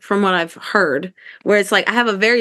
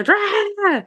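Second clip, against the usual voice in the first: a retold burst of rage in one syllable; mock scream rah; 12 semitones higher than usual. On the phone with Carlton, a high mock scream. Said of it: "I, I screamed".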